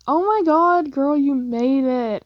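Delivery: bursts out high and loud on oh my God, then slows; excited greeting. Acted. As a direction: gush over your friend arriving. Finney greets her at the party.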